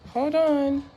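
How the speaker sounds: calling out, flustered. Real, not acted. Calls to someone about the bug.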